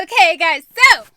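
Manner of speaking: loud, high upbeat intro; vlog intro. Acted. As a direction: burst into a bubbly opener.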